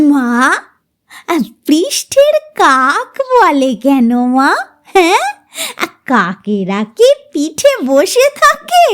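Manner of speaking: slow, lightly voiced child's question; cheerful question. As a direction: ask sweetly, slowly. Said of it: "Runa হাসি মুখে বলল". (হাসিমুখে শিশুর প্রশ্ন)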